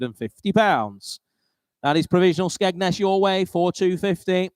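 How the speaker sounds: slowing down for once, twice, sold; auctioneer. Acted. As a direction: draw out the final call. Calling the hammer at auction.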